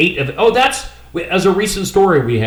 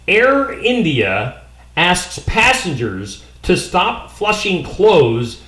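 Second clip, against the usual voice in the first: laughing; much slower than usual. Real, not acted. Reading headline, laughing.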